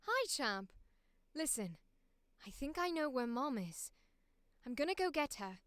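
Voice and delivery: put-on a light posh British accent, gentle and reassuring; a second reassuring posh British take; posh British accent, lightly done. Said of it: "we're gonna do British here".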